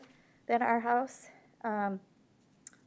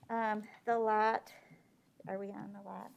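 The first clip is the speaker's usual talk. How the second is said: muffled by mask; 3 dB quieter than usual. Real, not acted. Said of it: "I can barely breathe in this mask".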